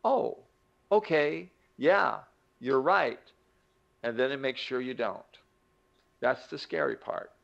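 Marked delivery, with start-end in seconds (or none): 0.0-3.2 mock agreeable brain, high opening "oh"; compliant brain. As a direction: play the brain readily giving in. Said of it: "The brain says".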